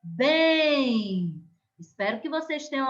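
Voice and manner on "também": também with BÉM leaned on; stress on BÉM. Shown as a demonstration. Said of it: "E a palavra".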